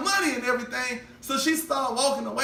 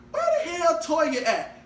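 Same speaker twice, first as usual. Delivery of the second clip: mom calling out; 3 semitones higher than usual. Retold or imitated. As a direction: call her out of the house. Mom calling daughter outside.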